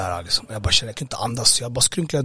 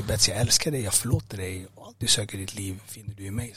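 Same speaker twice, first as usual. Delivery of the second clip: softer, lower, gentle reassurance; tender retelling; 3 semitones lower, 6 dB quieter than usual. Retold or imitated. Retelling Jesus's words while he hugs him, tender and hushed. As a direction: quietly pass on words of forgiveness.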